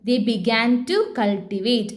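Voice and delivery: very slow, every word spaced for copying; slow dictation. Shown as a demonstration. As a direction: spell it out at writing speed. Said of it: "അങ്ങനെ എഴുതാം". (എഴുതിയെടുക്കാൻ വളരെ പതുക്കെ)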